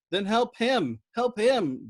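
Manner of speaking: high, loud pleading cry; wailing plea. Acted. Dobbs begs Yossarian to help the gunner, wailing. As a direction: beg at full voice. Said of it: "Dobbs swept".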